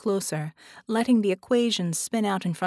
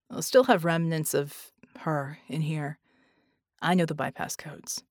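a slightly subdued, lower character voice; lightly voiced Red; 4 semitones lower than usual. A narrator's reading. Red tells Vicky he can open doors, lower voice. Narrator voices Red's dialogue.

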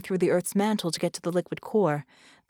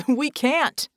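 raised, higher urgent voice; yelling back; 6 semitones higher, 5 dB louder than usual. Acted. Red answers Vicky over the alarm, yelling back. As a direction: yell back in desperation, moderately loud. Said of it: "Red yelled back".

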